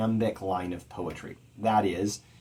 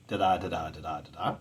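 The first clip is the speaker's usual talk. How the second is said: da-DA four times, fading softer; four iambs; 4 semitones lower, 5 dB quieter, faster than usual. Shown as a demonstration. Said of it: "iambic tetrameter".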